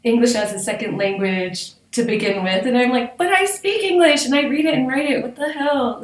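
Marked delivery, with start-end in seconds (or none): 3.2-6.0 indignant disbelief. Retold or imitated. Retold indignant protest.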